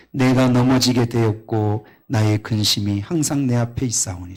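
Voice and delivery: loud, solemn reading of the psalm verses; scripture reading. Acted. Pastor reading the psalm to the congregation, loud solemn proclamation.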